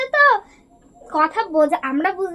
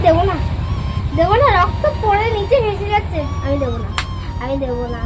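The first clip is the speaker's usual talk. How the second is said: louder, insistent retold refusal; 5 dB louder than usual. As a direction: refuse firmly, over and over. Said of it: "বলে নিয়ে দিয়ে গেছি". (জেদ ধরে জোরে বলা "দেবো না")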